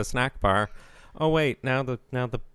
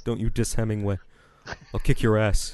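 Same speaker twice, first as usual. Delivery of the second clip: put-on belligerent drunk; 2 semitones lower than usual. Acting street fighter bro.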